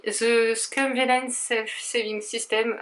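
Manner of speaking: English title read slowly in an English accent; hammed-up English accent, slow; self-mocking English accent. Real, not acted. Proudly reading a manga title to viewers in an English accent. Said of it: "avec mon super accent anglais".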